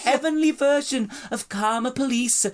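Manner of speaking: high, hammed-up Australian accent drifting Welsh; Australian accent slipping toward Welsh; bad Australian accent. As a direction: read the post in a failing Australian accent. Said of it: "Your Welsh accent is actually getting worse".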